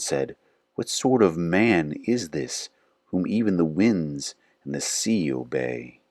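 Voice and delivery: measured, reverent reading of scripture. Acted. Reading scripture aloud to viewers, measured and reverent.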